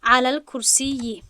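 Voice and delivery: علی الکرسی said slowly and loud, ending on a clear -i; teacher stresses the right ending علی الکرسی; correct kasra ending. Shown as a demonstration. Teacher to students, gives the right ending, slowly and loud. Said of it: "چی گفتیم؟".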